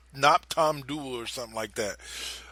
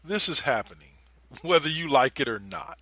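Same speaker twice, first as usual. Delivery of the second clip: calm and cold. Retold or imitated. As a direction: calmly tell her it will happen, then let it hang. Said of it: "very calmly looks her in the eye and goes".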